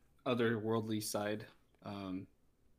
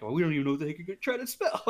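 mock exasperated phone; 6 semitones higher, 5 dB louder, faster than usual. Voicing text predict.

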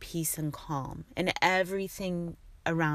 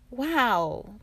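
surprised wow; 7 semitones higher, 5 dB louder than usual. Retold or imitated. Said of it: "I was like".

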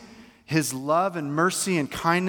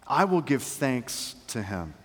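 slow and heartfelt, each word weighed; personal sincere confession; slower than usual. Acted. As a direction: say it slowly to yourself, like a vow. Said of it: "he turns to himself and says".

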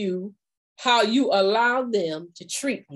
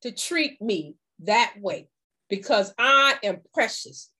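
firm refusal; 2 semitones higher than usual. Shown as a demonstration. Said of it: "let them know".

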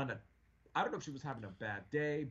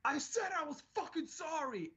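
exasperated outburst; 13 semitones higher than usual. Retold or imitated. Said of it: "was like".

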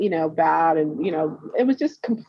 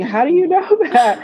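higher, louder retold amazement; astonished question; 9 semitones higher, 6 dB louder than usual. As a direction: blurt it out like the stunned client, laughing. Acts out client's astonished question.

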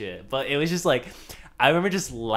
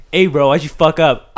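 imitated toxic teammate; 3 semitones higher, 13 dB louder than usual. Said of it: "says some dumb shit".

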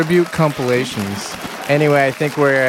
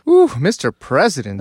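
flirty swoon. Pretend. Joking about dancing with the president at a club, flirty swoon. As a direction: play coy for a grinding president.

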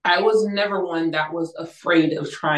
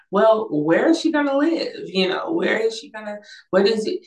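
higher-pitched mock interrogation; objecting mom; 6 semitones higher than usual. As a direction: imitate a mother quizzing, pitch raised. Retelling mom's objecting questions.

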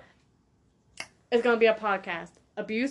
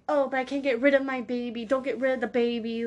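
quick, slightly higher mock pleading; hurried mock protest, pitched up a little; imitated pressuring voices; 4 semitones higher than usual. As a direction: lightly mimic people fretting over a baby. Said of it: "to the point where it's like".

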